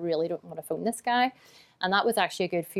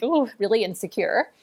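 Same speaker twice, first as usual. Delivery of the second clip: mock insecure; 4 semitones higher, 4 dB louder than usual. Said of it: "I'm sort of feeling like".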